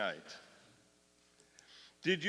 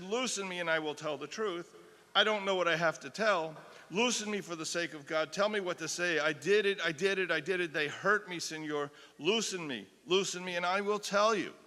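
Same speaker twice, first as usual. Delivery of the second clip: desperate plea; 3 semitones higher, 5 dB louder than usual. Acted. Acted plea of tortured woman.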